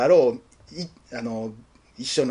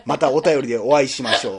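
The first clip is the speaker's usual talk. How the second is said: pointed, louder reread of the line; mock emphasis; 3 semitones lower, 4 dB louder than usual. Shown as a demonstration. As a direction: quote it back to tease. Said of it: "なんでお前発信やねん".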